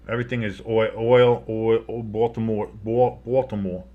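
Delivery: trying out a Baltimore accent; lightly attempted Baltimore accent. Shown as a demonstration. Co-host fumbling toward the local sound, tentative Baltimore accent. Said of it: "what a Baltimore accent is".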